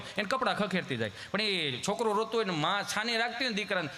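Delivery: ordinary talk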